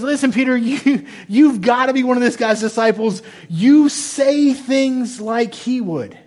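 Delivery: high, loud accuser, drawing out the last line; acted-out emphatic challenge; insistent accusation. Acting out Peter's accusers.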